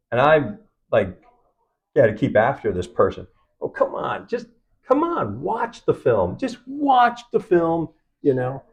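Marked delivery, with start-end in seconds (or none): 3.6-7.9 high, coaxing mock plea; mock pleading. Filmmaker chasing an agent to watch, pleading. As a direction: keep pestering, pitch leaping up on the plea.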